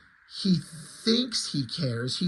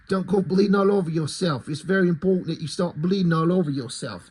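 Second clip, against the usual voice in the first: mock British butler. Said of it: "this is what Alfred's gotta sound like".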